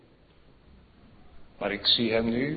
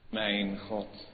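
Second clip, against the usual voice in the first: quiet lament; 6 dB quieter than usual. Acted. Quoting psalm cry softly. (zachte, lage klacht)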